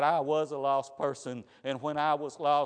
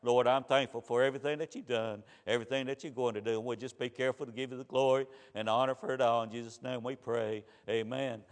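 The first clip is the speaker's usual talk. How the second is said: prayer; 2 semitones lower, faster than usual. Real, not acted. Closing prayer before the sermon.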